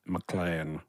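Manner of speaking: low, quiet Rickman villain voice; Alan Rickman. Retold or imitated. One-word Rickman impression at the audition, low and quiet. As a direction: drop low and murmur it like Rickman. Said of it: "like Alan Rickman in Die Hard".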